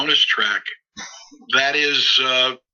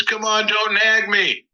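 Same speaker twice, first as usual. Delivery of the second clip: imitating Crosby; 9 semitones higher, slower than usual. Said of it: "He says".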